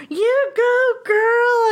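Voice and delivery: high, hammed-up cheer of you go girl; mock yell. Imitating the guy yelling you go girl at her. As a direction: squeal it out high like a fan. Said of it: "he starts screaming on the top of his lungs".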